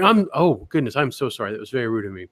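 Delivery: mock-flustered apology falling soft; over-polite sheepish apology; polite creep. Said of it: "is the polite rapist".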